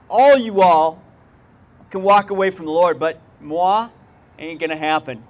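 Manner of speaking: mock bravado. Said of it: "I'm even saying that right now".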